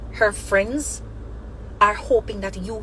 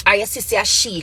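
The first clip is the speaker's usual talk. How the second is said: ordinary talk, nothing marked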